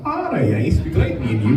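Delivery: mocking Scouse chatter; exaggerated Scouse impression; Scouse accent. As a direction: put on a teasing Scouse lilt. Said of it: "What does Scousers have to talk like that".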